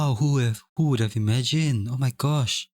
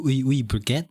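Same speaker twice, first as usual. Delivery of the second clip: lightly hammed French accent on "Oui, oui, baguette"; playful fake French accent; mock French. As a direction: tease with a cliché French accent. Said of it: "Do I just go".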